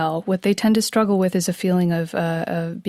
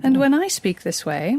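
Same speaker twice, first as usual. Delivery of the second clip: British accent; 6 semitones higher than usual. Shown as a demonstration. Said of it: "So let's try this".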